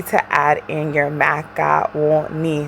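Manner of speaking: put-on light Haitian accent, slowed; a playful touch of Haitian accent; mock Haitian accent on macaroni. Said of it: "That's my Haitian accent for you".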